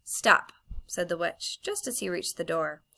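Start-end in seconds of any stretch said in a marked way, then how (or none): 0.0-0.5 loud, sharp stop; sharp command. Acted. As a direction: call him back sharply. Witch calls him back.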